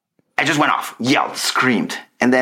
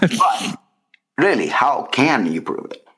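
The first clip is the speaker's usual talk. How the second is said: mock earnest; 2 semitones higher, much slower than usual. Mock earnest conspiracy argument.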